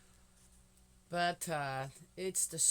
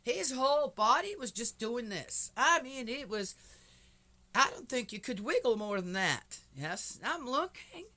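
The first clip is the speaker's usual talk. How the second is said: high, loud excited telling; 9 semitones higher, 6 dB louder than usual. Real, not acted. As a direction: gush about the wiggling puppy. Excited retelling of puppy.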